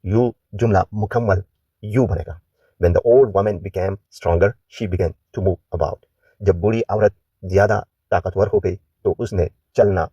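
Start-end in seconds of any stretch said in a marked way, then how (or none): 2.8-6.0 slow, careful model reading; teacher reads the answer slowly; slow model sentence. Shown as a demonstration. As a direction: say it slowly for learners to copy.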